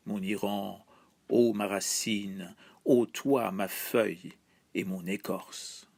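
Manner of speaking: slow, measured poetry reading with level, even intonation; poem recitation. Acted. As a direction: recite it solemnly as a patriotic poem, line by line. Recites own translation of poem. (récitation de poème, lente et posée)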